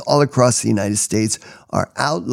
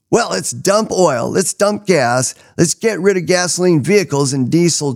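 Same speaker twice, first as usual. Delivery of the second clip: sarcastic; 6 semitones higher than usual. Acted. Sarcastic mock proposal.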